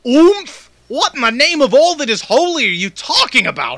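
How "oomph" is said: incredulous yelp up high; indignant actor; outraged disbelief. Real, not acted. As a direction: throw the word back at him. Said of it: "outraged actor".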